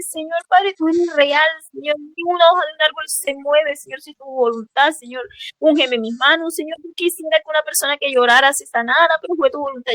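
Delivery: a touch of tearful pleading, retold; tearful prayer. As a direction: plead with God while still moved. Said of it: "empecé a llorar y le dije".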